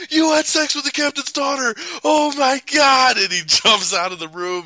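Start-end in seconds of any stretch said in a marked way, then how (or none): 0.1-3.2 high, loud gleeful outburst; hammed-up astonishment. Host imitating partner finding out the secret, high mock shout. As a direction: crow the scandal in a mock shout. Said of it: "he jumps up, and he's like".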